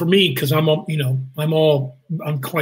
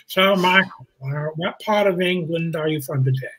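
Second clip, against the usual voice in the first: Alan Rickman. Retold or imitated. Co-star teasing him about his dialect in makeup, imitated voice. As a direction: lightly impersonate a deliberate English co-star. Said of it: "Alan would be sitting going".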